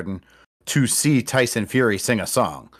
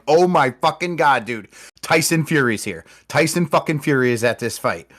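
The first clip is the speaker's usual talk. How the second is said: retelling his own shocked outburst, higher and louder; excited disbelief; 5 semitones higher, 4 dB louder than usual. Retold or imitated. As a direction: gasp it out like you can't believe who just walked in. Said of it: "I turned to my brother and I'm like".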